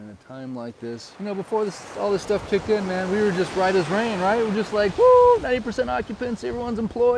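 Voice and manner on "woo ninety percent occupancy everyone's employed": high, loud whoop of a booming economy; mock cheering. Islanders cheering full occupancy, loud and high. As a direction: cheer it like business is great.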